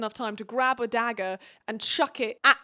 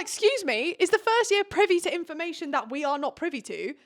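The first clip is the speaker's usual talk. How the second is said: mock indignant surprise; 5 semitones higher than usual. Riddick indignantly questioning squad.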